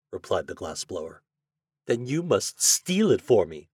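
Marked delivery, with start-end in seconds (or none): 1.8-3.7 retorting. Acted. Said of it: "she retorted".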